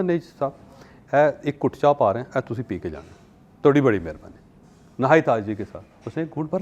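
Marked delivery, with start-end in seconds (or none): 0.0-4.3 pleading host. Retold or imitated. Host urges guest to take tea.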